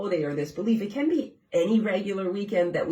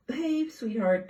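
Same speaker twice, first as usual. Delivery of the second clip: talking to a pet; 6 semitones higher, slower than usual. Real, not acted. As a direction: coo gently at the cat. Talking to her cat.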